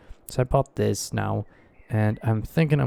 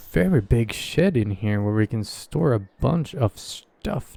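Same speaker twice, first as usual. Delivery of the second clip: usual speaking voice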